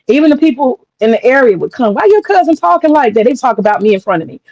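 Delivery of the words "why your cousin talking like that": nosy questioning. Retold or imitated. Local people questioning her speech.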